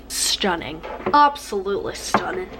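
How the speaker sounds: put-on playful Irish-accented verdict. Vlogger admiring her finished lips, in a playful Irish accent. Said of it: "That was a good Irish accent".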